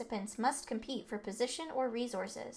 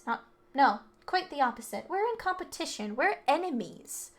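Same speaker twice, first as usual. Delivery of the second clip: cold; 4 semitones higher, 4 dB louder than usual. Acted. Rich kid declaring the others his enemies, cold contempt.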